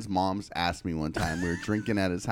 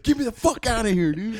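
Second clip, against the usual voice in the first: high-pitched, louder voice for the dog; homophobic dog's voice; 12 semitones higher, 4 dB louder than usual. Retold or imitated. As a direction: voice an indignant dog demanding out. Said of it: "My dog's a homophobe".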